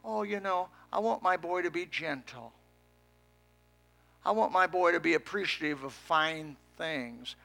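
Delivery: lightly voiced gentle mother; a hint of a doting mother. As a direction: soften into a pleading mom. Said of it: "the mother always would be the one to speak up and say".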